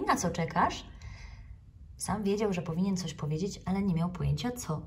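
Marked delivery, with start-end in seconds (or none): 0.0-0.9 cheerful. Acted. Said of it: "zawołała wesoło pani Okapi".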